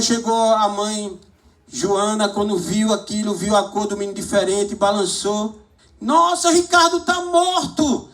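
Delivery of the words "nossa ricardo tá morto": high, loud cry of shock; the horror of finding her son dead; shocked mother. Retold or imitated. (mãe em choque, alto e agudo)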